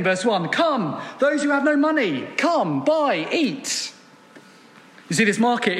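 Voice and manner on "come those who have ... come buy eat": higher crying-out call. Retold or imitated. Preacher voicing Isaiah crying out to the thirsty, raised. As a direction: lift the voice like calling a crowd. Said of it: "Isaiah cries again".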